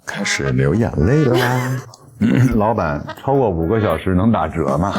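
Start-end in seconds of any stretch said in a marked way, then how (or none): 2.6-4.9 laughing while talking. Real, not acted. Laughing while asking shop owner.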